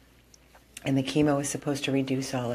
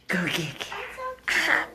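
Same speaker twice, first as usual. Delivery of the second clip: much higher, slow sing-song "Go get Carol"; high coaxing call; 13 semitones higher, much slower than usual. Real, not acted. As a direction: urge the dog in a high drawn-out voice. Urging dog, high voice.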